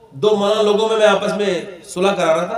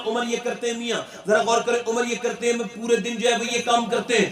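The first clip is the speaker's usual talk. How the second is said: softer, confiding explanation; hushed; 6 dB quieter than usual. Real, not acted. Preacher to listeners, softly confiding. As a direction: lean in and tell it quietly.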